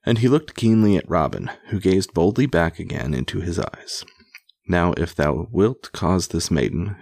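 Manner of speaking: measured, emphatic read-aloud storytelling; projected storybook reading; story narration. A narrator's reading. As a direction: read an old tale aloud with relish. Reads an old tale aloud.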